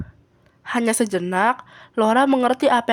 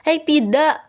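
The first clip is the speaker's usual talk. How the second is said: higher, mildly shouted objection; acted alarmed yell; shouted protest; 5 semitones higher, 3 dB louder, slower than usual. A narrator's reading. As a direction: cry out to stop her. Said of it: "teriak Laura".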